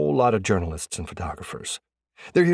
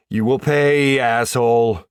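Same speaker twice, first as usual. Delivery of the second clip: indignant threat; 4 semitones higher, 7 dB louder, slower than usual. A narrator's reading. Prank victim threatens laughing prankster.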